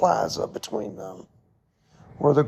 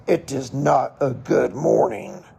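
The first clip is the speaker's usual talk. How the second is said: lower, leaning on "not", a touch of grumpiness; mock grumpy; 4 semitones lower than usual. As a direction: answer the cheery greeting with a mild grumpy retort. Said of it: "she was always grumpy".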